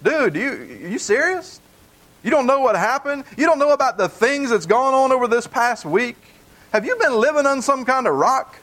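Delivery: dude, are you kidding me?; mock stunned disbelief; incredulous. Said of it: "Cleopas is basically saying".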